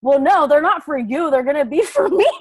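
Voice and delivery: quoting mom, laughter breaking through; mom laughing. Retold or imitated. Retelling mom's joke about the glasses, laughing through it. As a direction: let the giggle spill into the punchline. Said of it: "Then she said".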